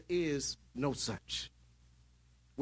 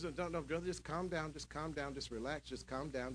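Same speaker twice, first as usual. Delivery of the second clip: calming a worried brother; 8 dB quieter than usual. Retold or imitated. Voicing Branham calming brother.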